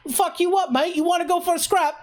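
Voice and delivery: very high, loud shouting chav threat; loud, high chav accent shouting at a rival; chav British accent. Shown as a demonstration. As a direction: pick a fight like a mouthy British chav. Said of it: "something chav, I'd be like".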